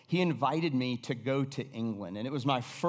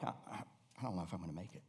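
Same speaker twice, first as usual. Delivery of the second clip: low, very soft, quick doubt; acted defeat, barely voiced; discouraged murmur; 8 semitones lower, 15 dB quieter, much faster than usual. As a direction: murmur it to yourself, losing hope.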